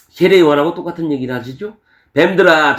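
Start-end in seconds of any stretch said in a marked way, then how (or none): 2.1-2.8 loud cry of rebuke; rebuking shout. Acted. Jesus denouncing the Pharisees, a loud rebuking cry. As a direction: call them out loudly.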